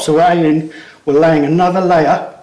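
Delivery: winded from pulling hard; straining and short of breath. Real, not acted. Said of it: "which is why I'm getting out of breath".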